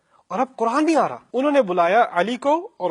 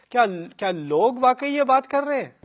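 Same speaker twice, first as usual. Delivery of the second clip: shocked disbelief; 7 semitones higher, 3 dB louder than usual. Retold or imitated. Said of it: "ہماری ماں کہتی ہیں".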